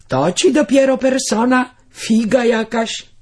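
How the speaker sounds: wyżej, głośniej, kpiąco i wolno; drwina. A narrator's reading. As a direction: zakpij z dziewczynki jak prostak. Woźnica drwi z panienki. (powolna, wyśmiewająca drwina woźnicy)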